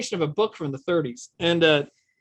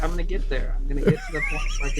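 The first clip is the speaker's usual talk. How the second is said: put-on young Putin voice; 4 semitones lower, faster than usual. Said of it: "And he was like".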